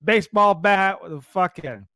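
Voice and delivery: high excited mock of a friend; imitating Flint. Quoting Flint showing weapon.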